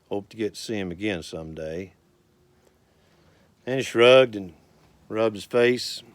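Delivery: unhurried rhythmic storytelling recital; cowboy poetry recital. Acted. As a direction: recite it like a cowboy poet at a campfire.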